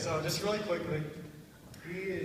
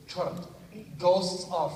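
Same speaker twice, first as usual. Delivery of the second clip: raised, emphatic flamboyant roommate voice; Arispe, flamboyant; 4 semitones higher, 3 dB louder, much slower than usual. Retold or imitated. Roommate disputing ghosts, mildly flamboyant voice. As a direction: announce it with a light flamboyant flourish. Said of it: "I don't know why he's a flamboyant".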